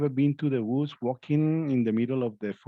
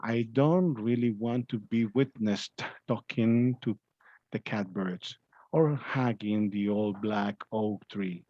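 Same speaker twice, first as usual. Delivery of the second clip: slow, heartfelt poem reading; teacher rereads the poem slowly, savoring it; moved rereading; slower than usual. Acted. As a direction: linger on each line, touched by it. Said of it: "I'm going to read this again because I, I, I really feel, like, uh, touched by this".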